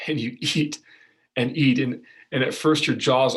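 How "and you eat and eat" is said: a small laugh breaks into the words; laughing while eating. Acted. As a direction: laugh with relief at finally eating. Starving listener finally eats bread.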